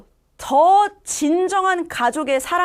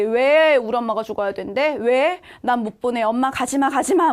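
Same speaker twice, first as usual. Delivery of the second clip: mildly raised, pleading protest; frantic protest. Acted. Boy refusing to lose his mother, mildly frantic acted plea. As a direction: plead with growing insistence, lightly acted. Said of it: "막 난리가 났죠".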